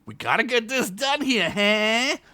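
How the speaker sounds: gruff orc, impatient; orc grumble. Acted. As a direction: orc nagging his coworker. Orc Blimp voice.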